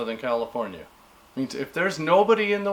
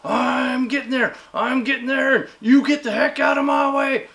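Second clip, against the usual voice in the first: higher, louder pushy driver voice; mock selfish driver; 7 semitones higher, 5 dB louder than usual. Imitating a rude driver yelling on the road, pushy voice. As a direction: play the entitled driver barking his way through. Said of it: "You're just".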